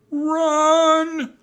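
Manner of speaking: very high, loud drawn-out yell; urgent scream. A narrator's reading. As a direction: scream a warning at full voice. Annie warns of pirates.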